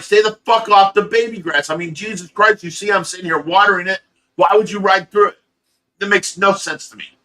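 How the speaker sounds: put-on retelling the yell over the baby grass; angry yelling. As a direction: chew the kid out, fast and loud. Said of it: "I yelled at him".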